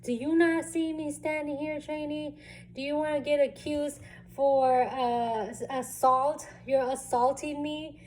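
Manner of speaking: mock-yell at the clumsy trainee; angry drill instructor. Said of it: "she lost it".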